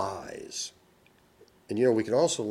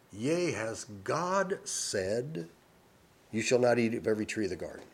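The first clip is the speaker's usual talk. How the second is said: sly serpent. Acted. Serpent quoted questioning God.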